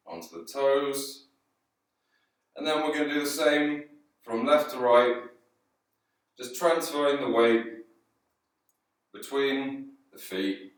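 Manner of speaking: guided yoga. Acted. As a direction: ease them towards stillness with long pauses. Guides yoga movement and centring.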